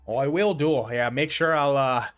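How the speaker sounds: hearty gardener seeing off a traveler; Fogholm's voice. Acted. Gardener bidding a friendly farewell, lightly voiced old man. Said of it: "letting it get me use this voice".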